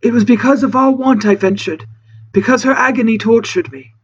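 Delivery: anguished reproach. Acted. Castaway explaining why he ventured out, reproachful and anguished. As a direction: confess it in a pained castaway voice. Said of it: "in a tone which seemed a merited reproach".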